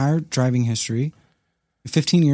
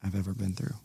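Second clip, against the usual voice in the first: soft, low voice holding back tears; quiet grief; 4 semitones lower, 7 dB quieter than usual. Real, not acted. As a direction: speak quietly about losing your dad. Telling of father's death.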